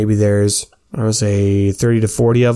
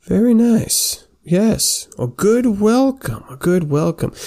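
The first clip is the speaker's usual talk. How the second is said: lifted, high voice saying a good welcome; a gracious centaur, pitched up and pleased; high welcoming centaur; 10 semitones higher, slower than usual. Acted. GM voicing a centaur greeting the squire in a high, pleased voice.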